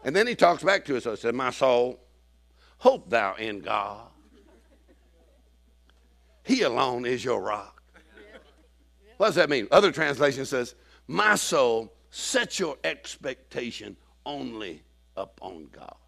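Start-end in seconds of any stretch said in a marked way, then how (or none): 1.3-7.8 David. Acted. David answers his soul in scripture. 11.1-16.0 slow, deliberate verse reading; scripture recitation. Acted. Preacher quoting another translation of the psalm, slow recitation.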